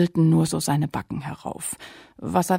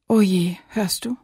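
anxious whisper; 3 semitones higher than usual. Acted. Lilli hears sobbing, frightened.

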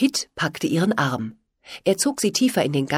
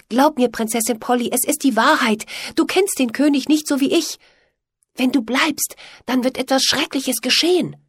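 pleading, insistent and raised; earnest assurance; 8 semitones higher, 5 dB louder than usual. A narrator's reading. Pitt pleads with Polly to believe his warning, earnestly. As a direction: make her believe you, urgently. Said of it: "beteuerte Pitt".

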